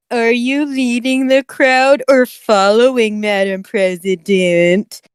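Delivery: slow, stretched-out imitated narrator voice; Chills. Questioning Madam President, slow imitated narrator voice. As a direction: draw out each phrase in a put-on voice. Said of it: "you're doing a Chills voice".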